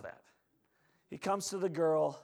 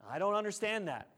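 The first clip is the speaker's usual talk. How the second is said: higher-pitched objection; distressed protest; 4 semitones higher than usual. Acted. Grieving father protests to Jesus.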